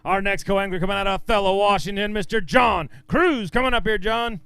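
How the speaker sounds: announcer intro, slowing on the name; stage announcer. Real, not acted. Emcee calls the next co-angler on stage, announcer style. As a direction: present the angler to the crowd, stretching the name.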